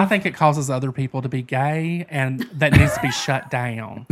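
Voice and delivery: mock opinion in a country accent. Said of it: "That was almost as country as me".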